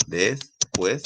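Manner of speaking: después softly broken into des and pués; soft syllable-by-syllable después; split into syllables. Shown as a demonstration. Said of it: "se puede separar en sílabas".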